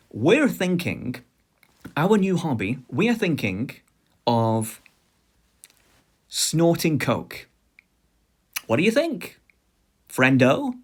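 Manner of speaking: high, slow, building up the reveal; spring the big news gleefully; giddy announcement. Retold or imitated. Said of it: "they're going".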